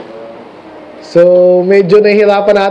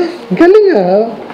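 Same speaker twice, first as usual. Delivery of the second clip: mock admiring reaction; 3 semitones higher, slower than usual. Mock reaction to immodest girls.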